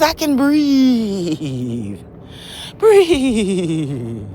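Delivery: slow, calm, drawn-out breath affirmation. Shown as a demonstration. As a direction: breathe it out slowly and peacefully. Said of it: "Put a new code in that says".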